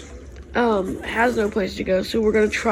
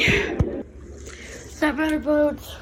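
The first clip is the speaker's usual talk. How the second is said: soft comfort; 5 semitones higher, 5 dB quieter, much slower than usual. Real, not acted. Comforting upset dog softly.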